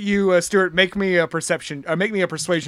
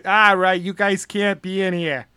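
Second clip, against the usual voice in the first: lightly voiced coach, slowing at the end; big coach accent; slower than usual. Guard turning people away, big coach accent. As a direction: warm into the accent with "Da Bears". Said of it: "your entrance word, like".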